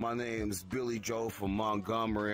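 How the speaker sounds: slow Alabama drawl, vowels stretched long; Alabama accent. Retold or imitated. Teasing a friend about Southern accents, thick mock Alabama drawl. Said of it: "like, the Alabama one".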